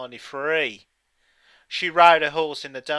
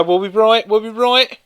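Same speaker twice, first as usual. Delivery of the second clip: rising, louder suspense; excited; 9 semitones higher, 9 dB louder than usual. Acted. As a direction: build the suspense, each time higher. Quiz host suspense, rising.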